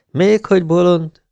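high, indignant retort; trembling indignation. A narrator's reading. Wyatt disputing his friend's judgement of the woman, indignant. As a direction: throw the word back, upset. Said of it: "mondta remegő állal Wyatt".

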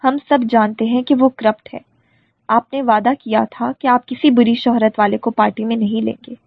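usual speaking voice

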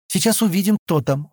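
high-pitched, mildly anxious anticipation; a touch of agitation; nervously excited. A narrator's reading. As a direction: say it with nervous eagerness. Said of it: "волнуясь, сказала она".

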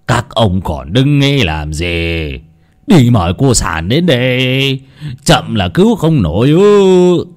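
put-on slow scolding old man, rising at the end. Old scholar scolds the villagers, slow and stern. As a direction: bark orders at the gawking crowd. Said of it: "Cụ Đồ nhìn đám người mà quát".

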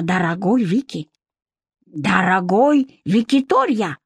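put-on slow, meek accented voice; a light accented shopkeeper, soothed; calm Abdurakhman. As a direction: explain gently, drawing words out.

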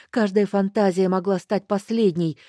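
usual speaking voice

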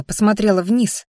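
ordinary delivery

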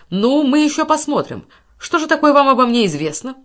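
jealous husband shouting at his wife's lover; indignant outburst. Acted. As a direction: fling it back at him, outraged. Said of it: "воскликнул Сольберг".

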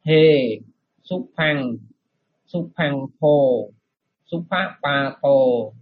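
slow, careful recitation; model reading. Shown as a demonstration. Monk demonstrating the verse for students, slow recitation. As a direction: spell out each Pali syllable slowly. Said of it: "Rồi lần nữa".

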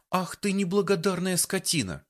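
high, hurt indignant cry; hurt outburst. A narrator's reading. Offended girl lashes out at the man, hurt. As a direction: lash out, close to tears. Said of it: "толкнула его кулачком и расплакалась".

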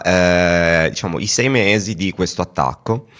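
ordinary delivery

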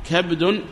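كبد as "kabdun"; short a after k, no vowel after b in كبد; first dialect form. Shown as a demonstration. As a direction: say كبد as kabdun, fully inflected. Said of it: "هذه ثلاث لغات".

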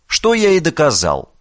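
ordinary delivery, nothing marked

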